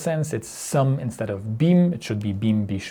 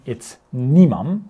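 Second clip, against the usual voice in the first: nimam said louder and slower, NI-mam; emphatic correct form; 6 dB louder, slower than usual. Shown as a demonstration. Teacher stressing the correct form nimam over ne imam. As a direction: hit nimam hard as the right answer. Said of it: "Rather than ne imam".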